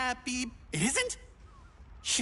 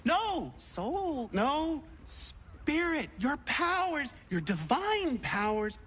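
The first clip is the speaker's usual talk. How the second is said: fumbled prayer. Acted. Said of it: "I'm trying to pray".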